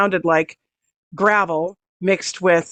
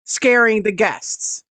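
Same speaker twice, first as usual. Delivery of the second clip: calling out; 3 semitones higher than usual. Acted. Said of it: "she called out to the dragon".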